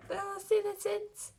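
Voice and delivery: lightly voiced Sally; Sally addressing court. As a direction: call the citizens to order.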